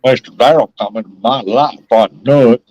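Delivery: a little Southern drawl on it; added drawl. Shown as a demonstration. Man repeating his line for a friend, with a drawl. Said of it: "just put a little bit of drawl with it".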